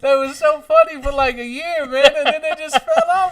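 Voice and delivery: high, put-on comedian narration; Tony Woods narrating. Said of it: "Narrated by Tony Woods".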